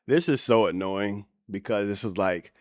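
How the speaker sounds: ordinary talk, nothing marked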